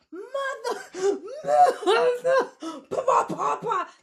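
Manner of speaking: a laughing outburst that breaks into babble; laughing mock yell. Real, not acted. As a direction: yell it half-laughing, half-cursing.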